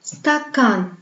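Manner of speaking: "stakan" with short "sta" and long, insistent "kan"; exaggerated final stress in "stakan"; long stressed syllable. Shown as a demonstration. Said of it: "elle se prononce longue".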